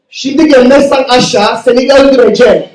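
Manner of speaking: loud-ish Turkish threat; angry dad threat. Retold or imitated. Dad threatening the son in the toilet, angry. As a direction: warn him in Turkish. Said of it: "So he says".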